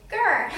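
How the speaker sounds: boy mimics her growl, teasing; mocking growl. A narrator's reading. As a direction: copy her growl to tease. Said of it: "You said grrr".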